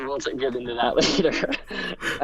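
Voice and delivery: laughing. Real, not acted. Amused aside, co-host laughing too.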